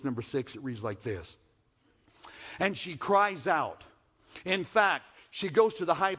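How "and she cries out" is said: louder, higher proclamation; crying out. Acted. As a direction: call it out like a town crier. Preacher voicing Wisdom crying out.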